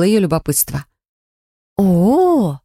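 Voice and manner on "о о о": drawn-out knowing oh. A narrator's reading. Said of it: "протянула она".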